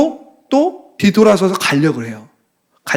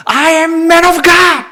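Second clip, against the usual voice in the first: high, drawn-out battle cry; very loud shout; 10 semitones higher, 5 dB louder, much slower than usual. Retold or imitated. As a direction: shout it boldly, stretching each word. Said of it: "이렇게 소리를 질러요".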